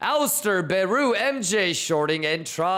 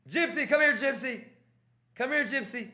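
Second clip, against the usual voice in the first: soft beckoning; 4 semitones higher, 5 dB quieter, faster than usual. Real, not acted. Beckoning viewer softly.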